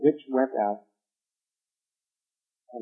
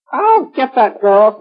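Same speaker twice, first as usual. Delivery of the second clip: high, loud, slow witch threat; 10 semitones higher, 9 dB louder, slower than usual. A narrator's reading. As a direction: snarl it like a vengeful witch. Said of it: "said the witch".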